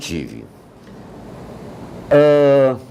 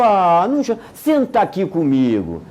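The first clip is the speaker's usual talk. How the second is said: tender consoling. Retold or imitated. Teacher consoling crying boy.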